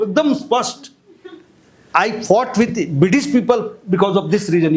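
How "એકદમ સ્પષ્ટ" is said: higher-pitched ironic insistence; mock assurance. Teacher tells laughing class the messy rule is clear, mock assurance. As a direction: declare it with mock certainty, pitch lifted. Mocking an inconsistent spelling to class.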